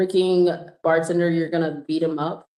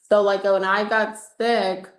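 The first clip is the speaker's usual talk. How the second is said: ordinary talk, nothing marked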